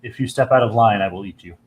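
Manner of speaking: deep dragon voice. Acted. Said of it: "you hear a deep voice".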